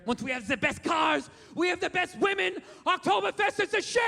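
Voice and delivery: rising shouted rally hype; mock crowd-pleaser. Hitler pleasing German crowds, shouted rally hype. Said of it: "telling those Germans what they wanted to hear".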